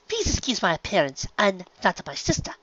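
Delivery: lightly voiced refined mare; apologetic lady. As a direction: apologize gracefully. Verity apologizes.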